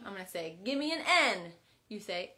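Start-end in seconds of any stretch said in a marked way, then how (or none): 0.6-1.5 cheer. Shown as a demonstration. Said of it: "we're gonna cheer this word out".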